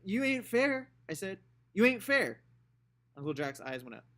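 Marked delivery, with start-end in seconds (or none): 0.0-0.9 high, loud whiny protest; childish protest. Acted. Scout protesting to uncle. 1.7-2.4 high, loud repeated protest; childish protest. Acted. Scout repeating her protest.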